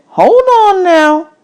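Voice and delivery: lightly voiced driver telling him to wait; the man's voice. Man's voice in audiobook.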